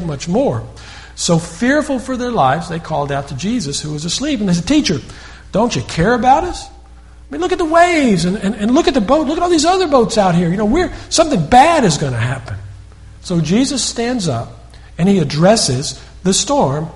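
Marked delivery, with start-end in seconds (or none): 4.7-12.6 high, urgent, frightened voice of disciples; panicked plea. Retold or imitated. Disciples begging the sleeping Jesus, frightened and high. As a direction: cry out over the waves in fear.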